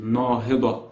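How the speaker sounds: Nahida as "naa-hi-daa", long open a sounds; second pronunciation. Shown as a demonstration. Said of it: "the second pronunciation".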